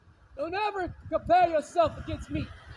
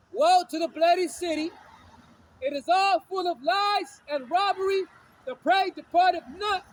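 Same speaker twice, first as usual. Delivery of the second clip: loud proclaimed prophecy; preaching scripture; 3 dB louder than usual. Acted. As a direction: thunder the woe over the city. Reads Nahum aloud, preaching.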